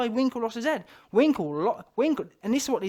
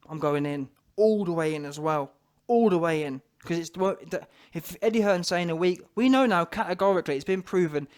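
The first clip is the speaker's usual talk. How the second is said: ordinary talk, nothing marked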